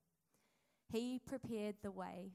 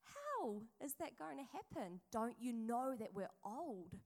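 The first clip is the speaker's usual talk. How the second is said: Zechariah, dumbfounded; 3 semitones higher than usual. Acted. Zechariah answering the angel's baby news, dumbfounded. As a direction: act out incredulous protest, starting way up high. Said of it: "he is dumbfounded".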